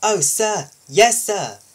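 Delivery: eager little engine answering; little engine eagerly agreeing; peeping little engine. Acted. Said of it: "peeps the little green engine".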